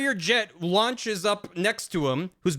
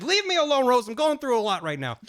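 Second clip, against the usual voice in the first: pitched-up petulant whine; a high, sulky teen dismissal; high whiny brush-off; 8 semitones higher than usual. Retold or imitated. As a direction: whine at her to go away. Raiden brushing off Rosemary.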